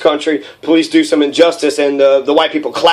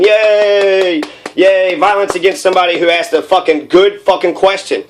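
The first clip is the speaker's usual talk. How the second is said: mock cheering; 3 semitones higher than usual. Bystanders applauding the beating, sarcastic mock cheer. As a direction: sneer through the fake celebration. Mocking clapping white crowd.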